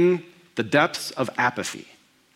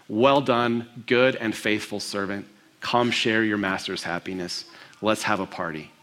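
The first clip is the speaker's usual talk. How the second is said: soft warm praise; 5 semitones lower, 4 dB quieter than usual. Acted. Master's praise, softer.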